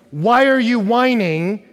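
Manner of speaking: loud, high, slow and drawn out; exasperated demand. Acted. Parent telling daughters to stop whining, loud demand. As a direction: make the question an order to stop.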